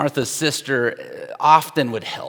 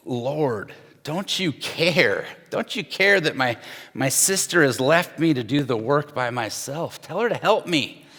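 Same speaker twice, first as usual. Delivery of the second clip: frustrated plea. Retold or imitated. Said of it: "she gets so frustrated".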